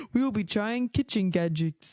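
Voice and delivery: a light, bad Russian accent, warmly hammed; butchered Russian accent. Vlogger imitating Crazy Russian Hacker's intro, light bad Russian accent. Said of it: "I'm gonna butcher this Russian accent".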